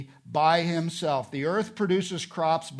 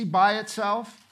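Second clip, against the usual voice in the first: "by itself" slow, raised and punched; stress on "by itself"; 6 semitones higher, 5 dB louder than usual. Shown as a demonstration. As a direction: hold up "by itself" higher and slower for emphasis. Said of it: "It's meant to emphasize something".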